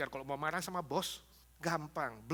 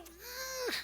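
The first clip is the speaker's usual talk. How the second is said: strained growl of frustration; 7 dB quieter than usual. Acted. Imitates strained, still-boiling anger.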